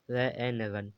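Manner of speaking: "रन" split into रै, ए, न, then blended; sounding out. Shown as a demonstration. Teacher showing u read as ए, sounding out "रन". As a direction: give each sound of "रन" separately, then the whole word. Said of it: "ए भी पढ़ा जाता".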